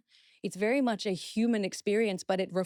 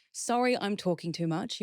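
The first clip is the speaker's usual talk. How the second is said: apologetic example. Shown as a demonstration. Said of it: "So instead of".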